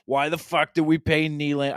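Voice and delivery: lightly hammed Boston accent complaint; mock Boston accent. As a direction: mimic a fed-up Boston-voiced fan with a Boston accent. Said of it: "talk like they're from Boston".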